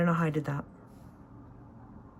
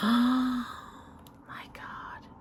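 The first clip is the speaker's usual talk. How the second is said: stunned surprise; 7 semitones higher, much slower than usual. Real, not acted. Stunned by her savings total.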